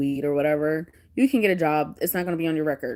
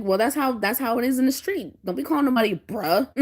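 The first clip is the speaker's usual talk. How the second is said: higher-pitched, playful scolding; mock street lecture; 5 semitones higher than usual. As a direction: lay down the law in jest. Retold mock scolding of son.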